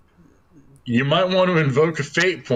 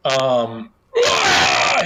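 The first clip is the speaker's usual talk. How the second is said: demon shriek; 3 semitones lower than usual. Acted. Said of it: "he shrieks".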